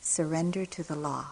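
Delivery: softly and calmly, a quiet steady reminder; hushed calm counsel. Retold or imitated. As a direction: say it gently, like a calming hand on the arm. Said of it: "he said in a very calm voice".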